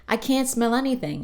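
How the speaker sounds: mock muffled complaint. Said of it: "And then Arthur's like".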